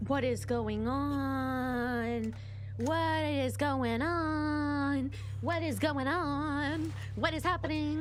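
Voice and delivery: drawn out very slowly, dazed; stunned disbelief. Real, not acted. Streamer stunned that the surrendering soldier was shot, slow and dazed. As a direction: stretch each word in shock.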